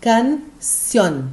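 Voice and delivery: canción as "can", pause, "ción"; split into syllables. Shown as a demonstration. Teacher showing the class the division, canción split into syllables. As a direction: break canción into two separate beats. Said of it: "como é que ficou a divisão de sílaba".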